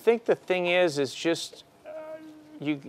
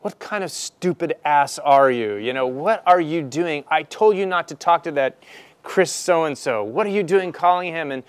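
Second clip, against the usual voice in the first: higher, berating mock scold of a careless young man; angry scolding CEO; 4 semitones higher than usual. CEO chewing out the young buyer, mock angry scolding. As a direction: play the furious boss tearing into him. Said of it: "the guy looks at me and goes".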